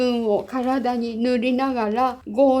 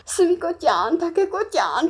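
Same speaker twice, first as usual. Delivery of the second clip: high, raised call to friends on the platform; calling out names; 8 semitones higher than usual. Retold or imitated. Girl calling her two friends from a departing train, calling out.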